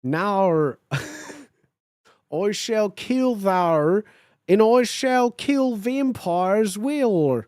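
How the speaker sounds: slow, loud mock Australian villain in olde English; Voldemort threatening in a faked Australian accent; Australian old English accent. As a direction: ham up the Australian Shakespearean threat. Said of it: "speak Australian in an old English accent".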